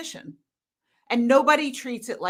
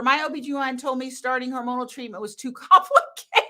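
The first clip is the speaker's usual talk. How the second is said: laughing; faster than usual. Real, not acted. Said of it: "That is a quotable".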